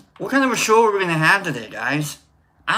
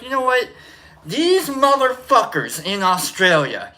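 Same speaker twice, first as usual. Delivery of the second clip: mock exasperation; 6 semitones higher than usual. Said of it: "you're gonna be like".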